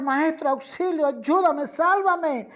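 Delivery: a drowning man calling out to his master in panic; panicked cry for help. A narrator's reading. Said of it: "Empieza a gritar".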